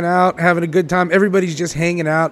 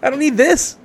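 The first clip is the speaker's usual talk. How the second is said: higher, slow put-upon whine; exasperated guy; 11 semitones higher, slower than usual. Retold or imitated. Rejected guy at the bar complaining, mock higher whine. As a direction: act wounded and fed up. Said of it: "I'm like".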